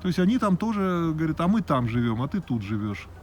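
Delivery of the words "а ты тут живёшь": usual speaking voice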